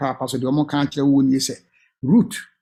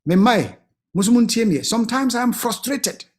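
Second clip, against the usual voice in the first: confiding parent; 3 semitones higher than usual. Acted. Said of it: "nka mɛka akyerɛ ɔmo sɛ".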